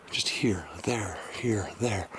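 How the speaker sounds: soft unvoiced whisper. Real, not acted. Musing to viewers about the boulders, hushed whisper. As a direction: breathe the words out, hushed.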